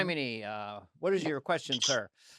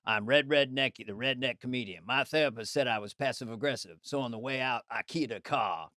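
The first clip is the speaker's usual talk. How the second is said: redneck comedian; 4 semitones lower, 5 dB quieter than usual. Acted. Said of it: "This is Red Redneckies, as written by".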